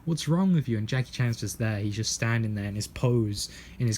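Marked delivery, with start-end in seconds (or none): 0.1-0.8 high-pitched imitation of a tearful complaint; mock crying. Crying victim to Jackie Chan, mock distress. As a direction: play upset, voice pushed up high. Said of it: "He's crying".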